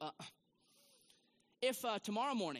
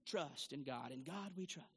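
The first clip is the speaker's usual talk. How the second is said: group recitation; 3 dB quieter, slower than usual. Shown as a demonstration. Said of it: "say it with me".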